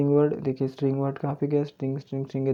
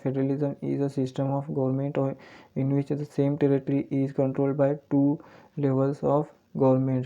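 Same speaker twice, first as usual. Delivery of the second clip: very slow, even reading of the English definition; slow dictation; much slower than usual. Shown as a demonstration. Teacher reading a definition to the class, very slowly. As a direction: read it out so students can follow each word. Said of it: "teacher reads definition aloud".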